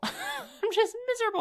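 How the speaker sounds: high laughing whine of "miserable". Real, not acted. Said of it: "like, miserable".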